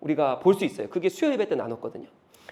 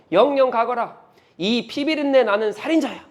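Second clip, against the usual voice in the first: acted curse of a bitter enemy, a bit louder; cursing; 3 semitones higher, 4 dB louder than usual. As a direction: spit the insult at the fleeing king. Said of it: "이렇게 말해요". (저주를 퍼붓는 성난 목소리)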